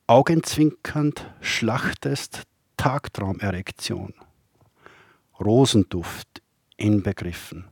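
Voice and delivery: measured poem recital with long pauses; poetry reading. Acted. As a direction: recite poems line by line, letting each phrase stand. Reads own poems aloud.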